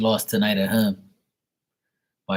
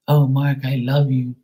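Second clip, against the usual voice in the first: high, louder gushing declaration; drunk girl voice; 6 semitones higher, 5 dB louder than usual. Retold or imitated. Drunk girl telling the DJ she loves him, high gushing. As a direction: swoon at him like a tipsy fan.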